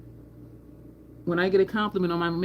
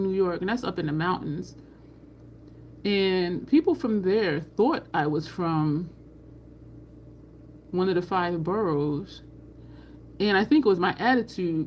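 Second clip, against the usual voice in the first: ordinary delivery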